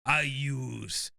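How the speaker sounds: lightly voiced grandiose speechmaker; hammy movie-star monologue; Al Pacino. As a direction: build a dramatic pitch, slowing at the end. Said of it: "he's transformed into Al Pacino".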